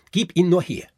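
put-on high, loud boyish shout for the toy; shouted demand. A narrator's reading. Fritz shouts at Marie to hand over the Nutcracker. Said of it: "rief Fritz".

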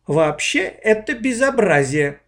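put-on a stern girl scolding slowly. A narrator's reading. Olya scolds the dog's owner, stern. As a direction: lecture the neighbour like a strict teacher. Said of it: "строгим голосом выговорила Оля".

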